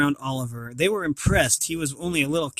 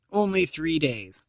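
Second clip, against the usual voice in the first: slow lament. Acted. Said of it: "he cried".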